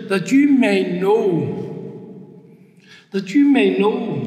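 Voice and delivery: "know" drawn out with a falling tune; emphatic repetition. Real, not acted. Preacher driving home Paul's words, emphatic repetition. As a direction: lean firmly on "you may know", stretching it. Preacher hammers a key phrase twice.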